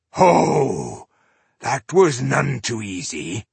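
gruff dwarf calling across. Acted. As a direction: hail her from a distance. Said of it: "he called out to the Maga".

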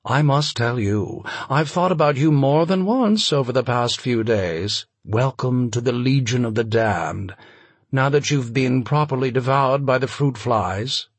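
lofty mid-Atlantic novelist; mid-Atlantic accent. Acted. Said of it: "with a mid-Atlantic accent".

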